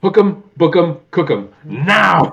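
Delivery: high, slow, loud hammed-up decree; over-the-top Broadway finale; theatrical command. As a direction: bellow it like a melodramatic hero. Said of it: "and he's like".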